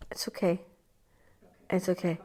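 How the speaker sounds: soft whisper of reassurance; whispered comfort. Retold or imitated. Comforting the inner child in a soft whisper. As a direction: hush a frightened child. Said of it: "you do the".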